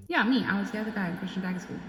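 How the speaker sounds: mild nonchalant admission; calm and plain. Retold or imitated. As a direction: toss it off like it's nothing. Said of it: "so plainly, so calmly like".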